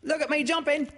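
tiny, very high squeak; Roo. Acted. Baby showing off jumps, in a high squeak. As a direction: squeak it out loudly like an excited little one. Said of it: "squeaked Roo".

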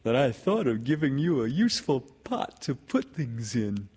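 high, cheerful bear voice; pleased storybook bear; happy. A narrator's reading. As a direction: say it proudly and happily. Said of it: "said Pooh happily".

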